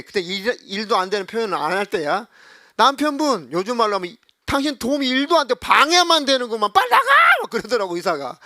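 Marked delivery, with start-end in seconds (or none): 2.8-7.0 louder, higher mock scolding building to a shout; doctor ordering out. Doctor ordering the husband out, mock angry shout. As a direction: chase him out of the room.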